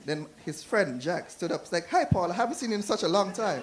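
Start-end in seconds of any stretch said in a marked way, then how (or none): 1.9-3.6 higher, raised-voice greeting; hearty greeting. Acted. Friend Jack calling back to the uncle, higher excited greeting. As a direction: greet a long-lost friend across the plane.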